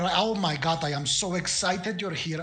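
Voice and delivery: lightly voiced, over-polite lich gushing on; gushing apologetic lich. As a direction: apologise profusely, tripping over your own excitement. Lich gushes apologies and excitement.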